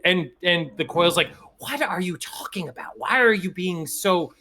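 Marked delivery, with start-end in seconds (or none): 1.6-4.3 bewildered protest. Acted. Accused coil answers, bewildered.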